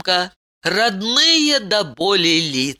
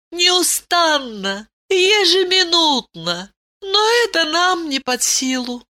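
higher, reverent princess voice; 10 semitones higher than usual. A narrator's reading. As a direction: speak of him with awe. Ailin speaks of the god. (благоговейно, высоким голосом)

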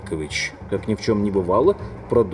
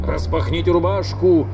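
shrill cry; 5 semitones higher than usual. A narrator's reading. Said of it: "пронзительный, дрожащий вскрик".

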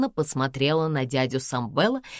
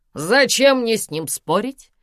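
loud, indignant retort, settling at the end; 5 semitones higher, 5 dB louder, slower than usual. A narrator's reading. Karina denies any argument with Samvel, indignant. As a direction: protest as the one who is right. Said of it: "возмутилась Карина".

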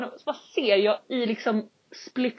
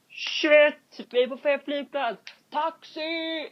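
mock panic, higher pitched; panicked realization; 5 semitones higher, slower than usual. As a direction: retell the panic at the wrong airport. Panik på fel flygplats. (lätt spelad panik)

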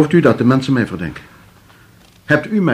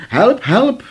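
higher, mock hysterical cry for help; retold cry for help; 7 semitones higher than usual. Man retelling his wife's cry to the inspector, in a mock hysterical shout. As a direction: replay her panicked shouting, half-hearted. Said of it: "riep ze heel hard".

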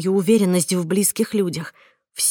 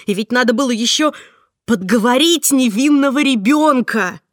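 higher, louder, cold reproach; bitter scolding; 4 semitones higher, 5 dB louder than usual. Acted. Heroine condemns Marta on the phone, bitter angry scolding. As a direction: lash her with hurt and contempt.

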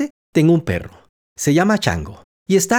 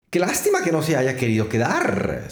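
a touch softer, sighing regret; 3 dB quieter than usual. Acted. The parrot regrets the mouse left, softly sighing. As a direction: let it out as a small sigh. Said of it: "suspiró el loro".

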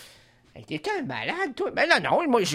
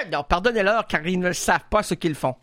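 mock biblical line; 4 semitones lower than usual. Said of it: "les répliques bibliques".

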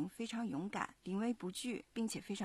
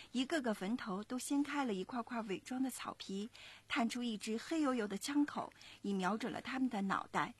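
put-on lively storytelling to young listeners; story narration; 2 semitones higher than usual. A narrator's reading. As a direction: narrate clearly and expressively, like a children's story. 妈妈朗读故事旁白. (讲故事的旁白)

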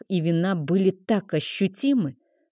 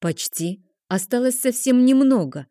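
ingratiating; 6 semitones higher, 3 dB louder than usual. A narrator's reading. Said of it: "заискивающе произнёс".

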